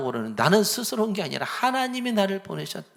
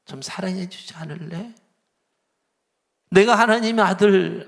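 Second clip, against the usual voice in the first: pleading gently. Retold or imitated. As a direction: ask them tenderly to listen. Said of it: "간절하게 지금". (간절하게 부탁하듯)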